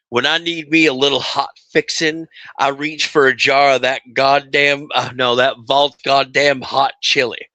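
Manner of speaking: high, bright pitchman read, slowing at the end; chipper 1950s ad. Pretend. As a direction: sell the chili like an old radio ad. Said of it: "you wanna do that one?".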